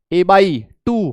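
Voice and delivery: "a by टू" stretched out very slowly; slow drawn answer. Shown as a demonstration. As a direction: drag the answer a by टू out slowly for the class. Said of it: "कितनी हो गई?". ("a by टू" बहुत धीरे खींचकर)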